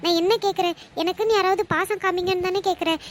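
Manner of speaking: mild desperate plea; hurt daughter praying; pleading prayer. Acted. Daughter prays alone, music.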